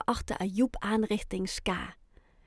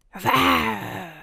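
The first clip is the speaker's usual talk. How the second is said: roar; 4 dB louder than usual. A narrator's reading. A hidden child roars from the corner of the classroom. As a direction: growl like a beast. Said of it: "een brul".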